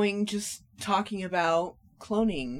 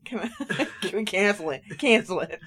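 laughing. Real, not acted. Laughing plea to cancel.

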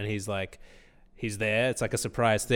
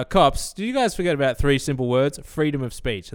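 defiant shout; 4 semitones higher, 5 dB louder than usual. Pretend. Defiant line to arresting cops.

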